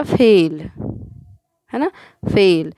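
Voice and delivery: फेल with a closed e, firmly stressed; e vowel. Shown as a demonstration. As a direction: say फेल with the plain ए sound. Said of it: "मात्रा का अंतर आपको समझ में आए".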